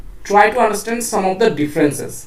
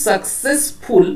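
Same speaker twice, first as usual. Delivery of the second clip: সাকসেসফুল pulled apart syllable by syllable; split into syllables; much slower than usual. Shown as a demonstration. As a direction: set ফুল apart in সাকসেসফুল. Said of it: "then ফুল ওয়ার্ডটা separate". (সাকসেসফুল, ভেঙে ভেঙে)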